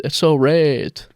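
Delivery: slow, light mock Chinese accent. Denying she'd ever write that, slow mock accent. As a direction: drag it out in a faint fake accent. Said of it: "I've said".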